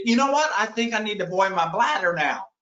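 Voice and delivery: sudden change of mind. Retold or imitated.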